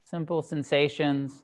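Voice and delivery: measured meditation guidance with long pauses; unhurried meditation teacher, phrase by phrase; guided meditation. Acted. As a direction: guide them gently into stillness, leaving space between phrases. Leads a sitting meditation.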